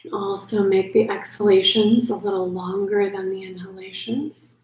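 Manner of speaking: unhurried yoga nidra guidance with long pauses; calm sleep-meditation voice, leaving space between phrases; guided meditation. Acted. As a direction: ease the listener gently toward sleep.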